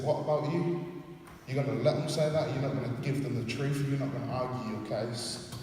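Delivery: indignant prodding. Retold or imitated. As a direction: imitate friends egging someone on. Retold friends urging her to fight back.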